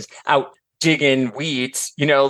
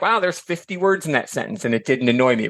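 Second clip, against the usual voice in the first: mildly delighted at a long sentence; pleased surprise. Retold or imitated. Reader admiring Austen's long sentence, mild impressed wonder. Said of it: "You're like".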